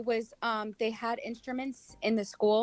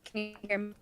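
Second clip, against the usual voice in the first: choppy robotic breakup; glitching bad phone line; robotic bad connection; 10 semitones lower, 3 dB louder than usual. Real, not acted. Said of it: "you're still roboting".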